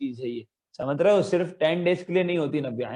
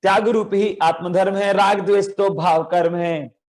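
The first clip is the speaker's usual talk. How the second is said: faster recitation. Shown as a demonstration. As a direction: hurry the recitation along. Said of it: "जल्दी". (जल्दी-जल्दी पाठ)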